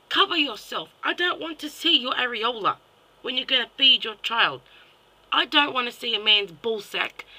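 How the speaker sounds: loud, high-pitched scolding; indignant telling-off; angry outburst. Real, not acted. Angry rant at women in public.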